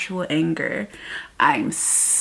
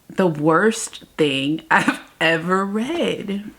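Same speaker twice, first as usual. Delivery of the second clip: slow, laughing through the words; a slow, laughing verdict on the book; laughing disbelief; slower than usual. Real, not acted. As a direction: drag it out, breaking into a laugh. Repeats verdict while laughing.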